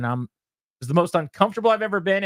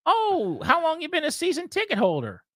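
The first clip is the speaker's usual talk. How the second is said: higher, lightly mocking polite hostess; a hint of a gushing hostess; imitating the owner's wife; 12 semitones higher than usual. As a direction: play her up as overly sweet and polite. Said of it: "And then his wife said".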